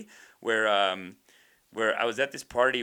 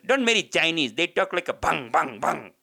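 mimicked Indian-auntie accent, a bit raised; imitated auntie's accent; 3 semitones higher, 4 dB louder than usual. Comic retelling auntie's party warning, mock Indian accent. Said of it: "she goes".

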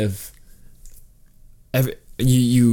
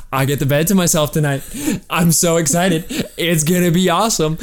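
mock giddy, a bit higher; imitating excited glee; 5 semitones higher than usual. Husband retelling his glee at a bed to himself, mock excited. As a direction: gush about having the bed alone. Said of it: "I was like, I'm so excited".

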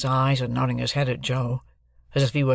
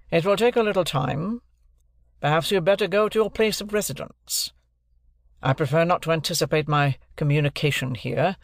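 a lightly raised, measured lawyer's voice; stern lawyer; 4 semitones higher than usual. Acted. Lawyer telling Pip's family about business, lightly voiced stern lawyer. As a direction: speak as a cool, formal London lawyer.

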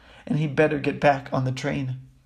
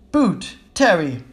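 loud, slow roll call; drawn-out name announcement; 3 semitones higher, 6 dB louder, slower than usual. Acted. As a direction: call it out to a crowd. Teacher calling out names.

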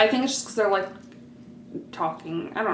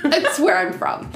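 laughing; 6 semitones higher, 3 dB louder than usual. Real, not acted. Laughing while speaking.

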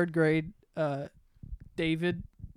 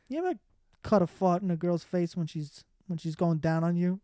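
laughing retelling. Retold or imitated. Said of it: "he goes".

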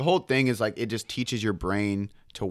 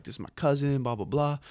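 put-on Italian accent; 5 semitones higher than usual. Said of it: "he pulls out a Italian accent".

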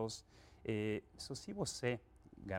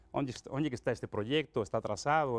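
curt, louder questions like a no-nonsense manager; blunt direct boss; 2 semitones higher, 6 dB louder than usual. Retold or imitated. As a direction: fire the questions off bluntly, no small talk. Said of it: "É muito mais direto".

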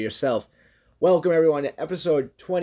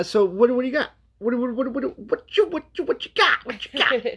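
excited prodding; 9 semitones higher than usual. Real, not acted. Excited prodding, pitch climbing.

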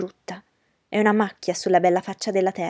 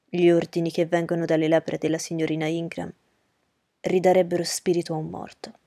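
a lower, courteous gentleman's voice; Rochester's voice; 4 semitones lower than usual. Acted. Rochester politely agreeing with Miss Ingram, in a lower gentleman's voice. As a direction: drop the pitch for a composed, gallant host.

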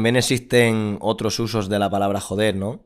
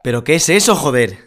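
higher, louder amazed outburst with a laugh; can't believe what they see; astonished; 4 semitones higher, 7 dB louder than usual. Pretend. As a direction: gasp it out in disbelief. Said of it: "es como asombro".

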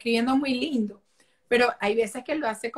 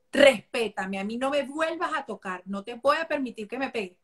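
firm warning. Pretend. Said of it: "pones tu cara serio".

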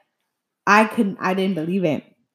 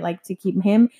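a whispered aside to the listener; confiding whisper; 2 semitones lower than usual. Real, not acted. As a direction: drop to a whisper for the gossip. Aside about others' gossip.

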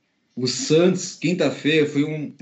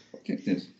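whispered; 10 semitones lower, 9 dB quieter than usual. Real, not acted. Fan promising the title.

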